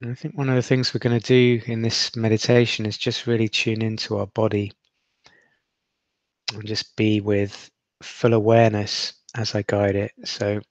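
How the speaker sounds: steady, unhurried meditation guide; guided meditation. Acted. Guide helping listeners rest in awareness, in an even meditation voice. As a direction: let each instruction settle with long silences.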